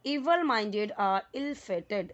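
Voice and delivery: slow, careful reading of the sentence; teacher reading the sentence slowly. Shown as a demonstration. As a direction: read each word out slowly for learners. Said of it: "अब यहाँ पे देखिए".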